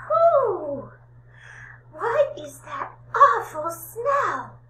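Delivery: put-on high, loud little old lady recoiling at a stink; high old lady voice, grossed out; disgusted old lady. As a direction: squeal it like a granny hit by a bad smell. Old lady smells the cheese man.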